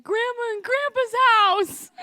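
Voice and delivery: put-on high, slow small-kid answer; child answering. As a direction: say it like a tearful five-year-old. Child answers old woman.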